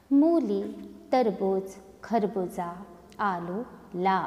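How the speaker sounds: a teacher reading aloud, word by word; slow demo reading. Shown as a demonstration. Teacher reads practice lines to students, slow and clear. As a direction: read each line slowly and clearly for pupils. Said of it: "मैं आपको कुछ पंक्तियाँ बोलकर दिखाने वाली हूँ".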